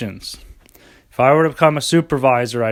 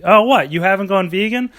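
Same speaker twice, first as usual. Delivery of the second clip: smug, superior mock sermon to a meat eater; condescending. Smug health nut lecturing a meat eater, condescending. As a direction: look down your nose and lecture him. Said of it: "Talk down to him condescendingly".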